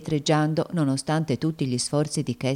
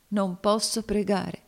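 slow, higher lament; despairing confession; 5 semitones higher than usual. Acted. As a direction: draw out the helpless admission. Cassie repeats her despair.

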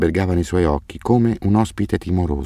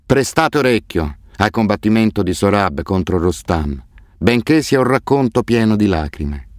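reading aloud; 3 semitones higher than usual. A narrator's reading. Man reading the epic to a boy in hospital, recited. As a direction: recite an old epic from the book. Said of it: "Mi schiarì la voce e lessi".

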